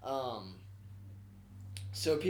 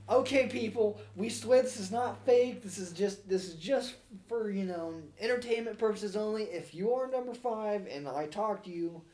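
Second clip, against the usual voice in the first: pleading host; 4 semitones higher than usual. Retold or imitated.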